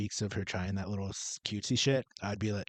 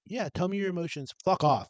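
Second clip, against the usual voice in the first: high, fake-caring, then dismissive; mock supportive; 7 semitones higher than usual. Parent faking interest in a child's emotions, dismissive. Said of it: "Or to, like, just be like".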